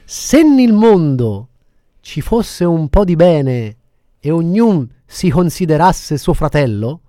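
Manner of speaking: slow, solemn recitation of a poem; theatrical swelling poetry reading. Shown as a demonstration. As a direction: recite it slowly like a grand poem. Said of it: "che se volete ve la dico questa poesia".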